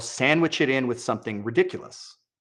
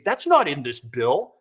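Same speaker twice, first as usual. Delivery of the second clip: mock official denial; slower than usual. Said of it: "that's exactly how they say it".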